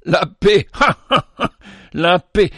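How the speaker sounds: high, loud bitter laughter around the words; frightening laugh. Acted. Old vagabond laughs bitterly at the shepherd's offer of peace. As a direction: laugh wildly in scorn. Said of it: "éclata d'un rire effrayant".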